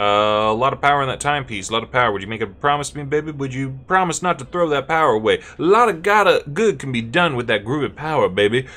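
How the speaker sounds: lightly hammed-up smooth talker; a touch of showy, persuasive groove; groovy character. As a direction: coax like a groovy hipster, building in energy. Voices a groovy game character.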